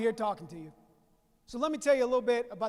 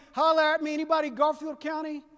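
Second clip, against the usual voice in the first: calling out to the crowd; 3 semitones higher, 4 dB louder than usual. Real, not acted. Asking the Garfield County crowd.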